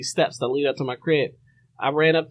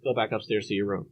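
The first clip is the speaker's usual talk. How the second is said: calm, collected; 5 semitones lower, 7 dB quieter, faster than usual. Retold or imitated. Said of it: "most calm and collective voice".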